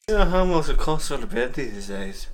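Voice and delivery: Scottish line. Pretend. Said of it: "reprise your famous line".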